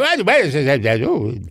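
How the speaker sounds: lightly voiced vague old star; high mumbled Tallulah. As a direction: mumble like a foggy diva. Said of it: "couldn't quite make out what she was saying".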